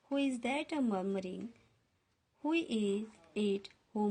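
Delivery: slow poem recitation. Acted. Teacher reciting the stanza to the class, slow poem reading. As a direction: read each line slowly and evenly, like a poem.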